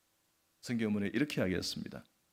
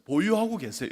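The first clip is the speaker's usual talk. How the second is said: high, loud flustered exclamation; acted-out flustered admiration, voice raised; 8 semitones higher, 7 dB louder than usual. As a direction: blurt out praise in a fluster. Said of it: "그만큼 제가 당황했다는".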